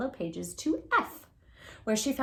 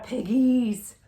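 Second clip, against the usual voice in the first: menacing whisper; 2 semitones higher, 5 dB louder than usual. Acted. Witch threatens pigs.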